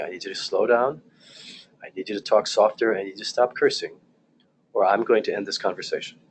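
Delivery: steady, even, repeated firm request; unruffled firm calm; calm broken record. Shown as a demonstration. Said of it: "broken record, same thing".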